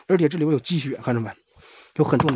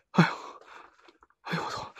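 whispered curse; 10 dB quieter than usual. Real, not acted. Muttered curse.

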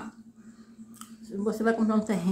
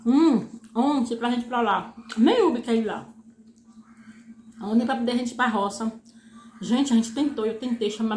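chewing between words; talking while chewing. Real, not acted. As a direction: mouth full of noodles. Seen 2: noodles in mouth, chewing through labelled words, food at lips.

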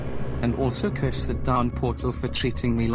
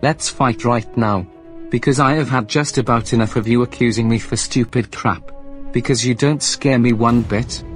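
much louder, taunting challenge; angry shouting; 9 dB louder than usual. Acted. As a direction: shout back, daring him to fight. Rival accepts the fight.

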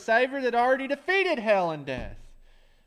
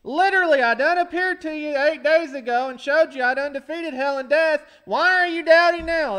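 loud, higher scolding Jesus voice; Jesus scolding his quarrelling disciples, loud and higher; exasperated rebuke; 4 semitones higher, 7 dB louder than usual. Retold or imitated. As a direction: chide the bickering disciples.

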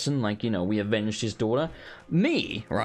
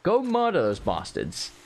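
higher, urgent plea to go kill them; a hint of a vengeful father giving orders; half-acted dad demanding revenge; grieving father; 11 semitones higher than usual. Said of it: "I'd have been like".

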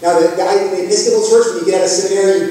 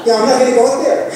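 mock refusal; 7 semitones higher, 4 dB louder, much faster than usual. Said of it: "So I just thought".

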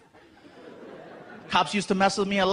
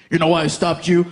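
a hint of a stern cop, lower; mean cop; 4 semitones lower, 5 dB louder than usual. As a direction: play the gruff officer lightly. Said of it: "the cop came to the car all mean".

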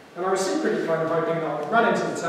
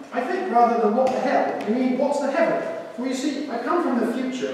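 higher, louder put-on posh voice; a smug talking fridge from the future; 6 semitones higher, 3 dB louder than usual. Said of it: "it's also got a rich accent".

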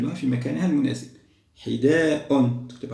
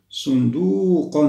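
صندوق said slowly and louder; teacher presenting the next word; slow model word; 4 semitones higher, 6 dB louder, much slower than usual. Shown as a demonstration. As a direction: announce صندوق slowly to the class. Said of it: "هل نقول الصندوق أم الصندوق؟".

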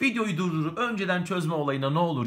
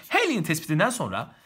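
Halley'in said the English way, "helijin"; an English accent on Halley'in. Shown as a demonstration. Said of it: "sırf Halley demek için".

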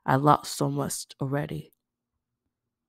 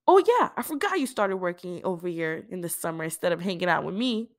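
teasing; 4 semitones higher than usual. Acted. Aisha teasing.

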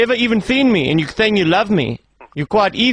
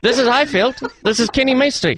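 put-on higher-pitched Indian accent; 4 semitones higher than usual. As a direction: announce yourself in an Indian accent. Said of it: "speak like a true Indian".

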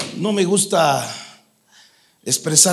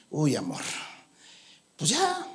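mock indifferent husband; 10 semitones higher, 6 dB quieter than usual. Husband dismisses dying mother-in-law.

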